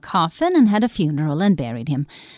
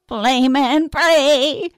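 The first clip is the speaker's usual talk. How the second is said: higher, louder urging; widow crying out; 6 semitones higher, 4 dB louder, much slower than usual. Acted. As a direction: egg the fiddler on, rising. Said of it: "cried the widow".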